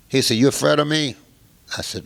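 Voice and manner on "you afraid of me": put-on loud, higher, testing the kid; menacing challenge. Mob boss to young musician, loud menacing challenge. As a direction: lean in and dare him to flinch.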